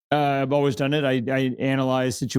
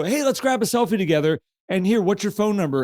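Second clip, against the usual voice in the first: cheerful; 5 semitones higher than usual. Retold or imitated. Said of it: "we go".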